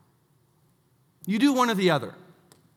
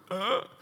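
short grunt, pitched up; retold gut-punch grunt; 4 semitones higher than usual. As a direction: grunt as if the words just landed a hit. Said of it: "I was like".

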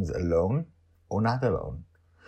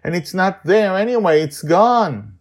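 put-on girl near tears; 8 semitones higher, 9 dB louder than usual. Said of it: "seems on the verge of tears".

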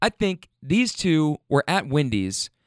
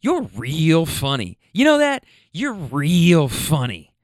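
sarcastic quote; 4 dB louder, slower than usual. Retold or imitated. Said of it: "she just says".

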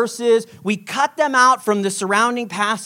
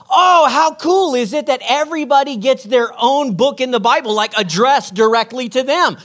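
naive excitement; 3 semitones higher, 3 dB louder than usual. Retold or imitated. Naive teenage self marvels at Bible.

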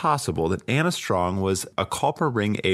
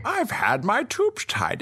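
high, slow put-on Bond voice; hammed-up secret agent; James Bond impression; 13 semitones higher, slower than usual. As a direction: drag it out in a raised agent voice. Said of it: "my James voice".

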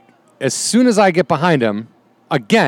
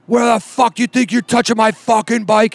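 mock biker scream; 7 semitones higher than usual. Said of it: "He's screaming".

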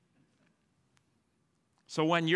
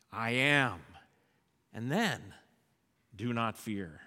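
lower, much softer, gentle; hushed comfort; 7 semitones lower, 7 dB quieter than usual. Acted. Jesus comforting frightened disciples, soft and low. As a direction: sink to a tender hush.

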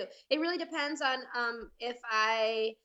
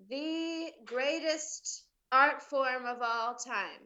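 halting recital with long pauses; podcast intro; 3 semitones higher, slower than usual. Acted. Guest reciting the show's intro from memory, announcer style. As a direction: stretch it out as you remember.

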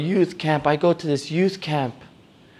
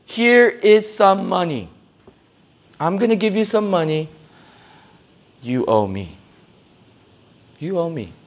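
bargaining with God; 5 semitones higher than usual. Retold or imitated. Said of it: "Have you ever said to God".

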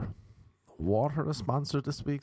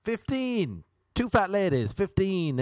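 bingo caller; 5 semitones higher, 4 dB louder than usual. Pretend. Calling bingo numbers.

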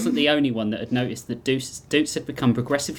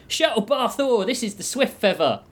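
ship comms voice; 10 semitones higher than usual. Acted.

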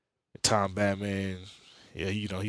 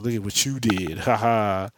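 smug gloating; 5 dB louder than usual. Retold or imitated. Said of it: "all smug".

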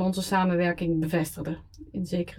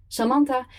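higher, pleading; pleading drunk; 6 semitones higher than usual. Acted. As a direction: beg her to let you lose. Drunk call to ex at night.

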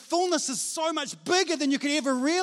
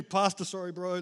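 ashamed admission; 6 semitones lower than usual. Acted. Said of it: "I've been ashamed about the fact".

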